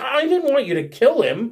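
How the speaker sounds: high, aghast, appalled, horrified voice. A player recounts how a character reacted to news of the snail's death, retelling a horrified reply. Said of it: "she seems horrified at that idea".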